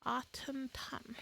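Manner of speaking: whispered, slow and careful; quiet whisper while practising the twister; whispered attempt. Real, not acted. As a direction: whisper it to yourself, testing the words. Stumbling through a tongue twister.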